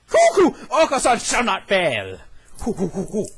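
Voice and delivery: a proud little bird chirping; cuckoo bird voice. Acted. Bird character.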